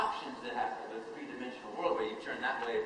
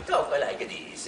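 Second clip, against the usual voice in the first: put-on slow, whispered old-man voice with a laugh; oldest man alive; 2 semitones higher, 3 dB louder, much slower than usual. Recalling his old Gremio role, slow whispery old man. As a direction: creak it out like the oldest man in the world. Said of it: "oldest man in the world sort of thing".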